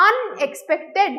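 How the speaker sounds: "আনএক্সপেক্টেড" with the first syllable, আন, stressed. Shown as a demonstration. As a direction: hit the opening আন of "আনএক্সপেক্টেড". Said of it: "তাই স্ট্রেসটা আনে যাচ্ছে".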